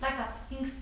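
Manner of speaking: hammy bad French accent; comically broken French accent. Shown as a demonstration. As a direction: attempt a halting French accent. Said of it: "I'm trying to do the French".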